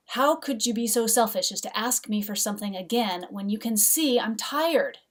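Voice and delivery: heated tired-mom rebuke, slowing at the end; exasperated scolding. Retold or imitated. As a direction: scold them like a worn-out mom. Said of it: "I have no calm tone of voice".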